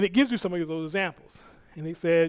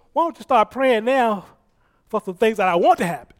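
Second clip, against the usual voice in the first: God's voice; 4 semitones higher, 7 dB louder than usual. Retold or imitated. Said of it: "He says".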